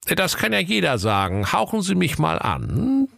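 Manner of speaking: high officer voice, dry; cop voice. Acted. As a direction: demand the breath test like a cop. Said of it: "Doch der Kommissar sprach".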